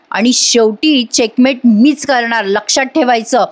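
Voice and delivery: understated menace, slowing in places; mild threat. Acted. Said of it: "नागराजला धमकी देते". (मंद, धमकीच्या सुरात)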